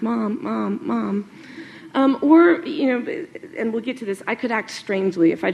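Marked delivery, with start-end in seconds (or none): 0.0-1.3 put-on nagging kid. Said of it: "the kid who tugs on their mom's sleeves".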